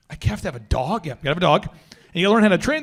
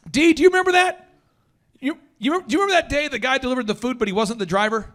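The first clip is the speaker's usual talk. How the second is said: pitched up, quick question to a coworker; eagerly asking D to back up the story; excited call to D; 5 semitones higher than usual. Real, not acted. Asking coworker D if he remembers, excited. Calling out to D in office.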